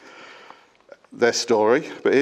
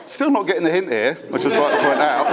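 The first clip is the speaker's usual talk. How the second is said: laughing. Real, not acted. Reading old texts aloud, giggling.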